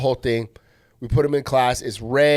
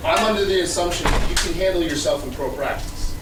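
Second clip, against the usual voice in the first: acted argument; 3 semitones higher than usual. Acted argument at front desk.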